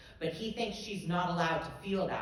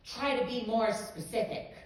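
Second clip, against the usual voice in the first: higher, louder fake-cheery advice; mock enthusiastic; 7 semitones higher, 5 dB louder than usual. Teacher grading her poem, hammed-up fake enthusiasm. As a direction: chirp it like a cheerful comment. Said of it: "so you know he's enthusiastic".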